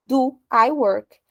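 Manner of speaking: "Do I work?" said slowly and clearly; slow question. Shown as a demonstration. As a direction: lay out each word of the question. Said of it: "se eu quero me perguntar". (pergunta devagar e bem articulada)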